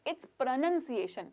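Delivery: pronunciation said slowly, each syllable clear; correcting the uncle, slowly spelling out pronunciation; aunty correcting pronunciation. Retold or imitated. Aunty corrects uncle, slowly stressing pronunciation. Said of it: "aunty उनको बोलती है".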